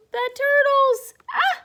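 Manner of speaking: high, loud, slow delighted call; excited reveal. Acted. Reading to children, revealing the turtles excitedly. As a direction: announce it with wonder.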